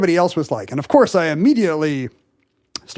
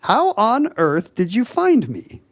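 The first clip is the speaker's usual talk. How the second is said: higher, slow astonished question; 5 semitones higher, slower than usual. Retold or imitated. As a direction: draw it out in disbelief. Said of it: "there's a sharp intake of breath".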